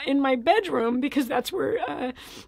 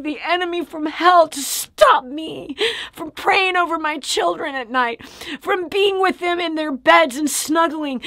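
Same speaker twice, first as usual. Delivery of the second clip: retold furious rebuke; 2 semitones higher, slower than usual. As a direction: spit each word out slowly at the enemy. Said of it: "and I said".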